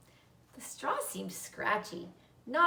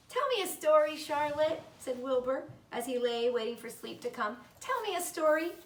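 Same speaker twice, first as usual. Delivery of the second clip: pleading pig; 5 semitones higher than usual. Acted. Wilbur begging for a story.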